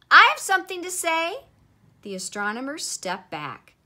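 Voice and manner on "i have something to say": put-on high, loud, quick child voice; boy shouting. A narrator's reading. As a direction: call out eagerly over the grown-ups. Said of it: "a boy shouted".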